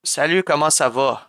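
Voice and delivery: casual Québécois greeting, 'va' rounded to 'vo'; Quebec French accent. Shown as a demonstration. Streamer shows what Quebec really says, Québécois accent. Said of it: "We'd say salut".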